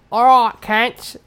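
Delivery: put-on New Zealand accent with hesitant pauses. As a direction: do a comic New Zealander, searching for words. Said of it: "say it in a New Zealand accent".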